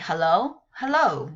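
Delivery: hello with rising then falling tune; teacher showing English hello tunes; varied hello. Shown as a demonstration. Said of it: "you don't say".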